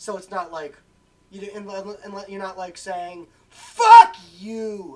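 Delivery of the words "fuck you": full-throated, very loud shout. Explaining casual swearing with a yelled example phrase: yelled. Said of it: "Sorry for the yelling".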